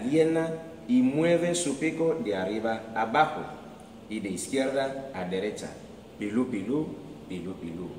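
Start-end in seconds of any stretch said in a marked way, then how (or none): 6.2-7.9 bird chirping. Acted. Bird's happy chirping.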